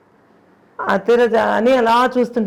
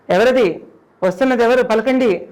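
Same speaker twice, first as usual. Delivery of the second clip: raised calls into the darkness; shouting; 4 semitones higher, 3 dB louder than usual. Retold or imitated. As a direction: shout out, demanding an answer. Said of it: "అని అరిస్తే". (చీకట్లో గట్టిగా అరవడం)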